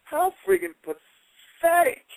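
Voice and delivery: slow, high contemptuous drawl; scornful contempt. Retold or imitated. The speaker telling Knobbs off, slow and scornful. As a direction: spit out the disdain slowly. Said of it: "I looked at him and I said".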